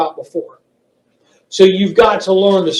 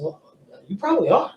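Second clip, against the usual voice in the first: friendly, higher phone pitch; customer service voice; 4 semitones higher than usual. Shown as a demonstration. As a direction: agree warmly with the customer. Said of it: "I said".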